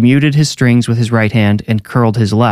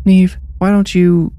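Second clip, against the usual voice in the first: high, slow mom voice; mother; 9 semitones higher than usual. A narrator's reading. Mom sending Neve off to play, high hesitant voice. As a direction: pitch it up and draw it out to a child.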